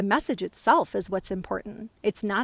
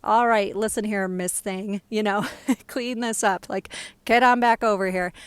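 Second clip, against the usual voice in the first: tongue-in-cheek imitation of a bossy uncle; playful mock scolding, louder at start and end; cheerfully brash; 5 dB louder than usual. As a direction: order them about with affectionate cheek. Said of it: "brash at times, but in a really cheerful".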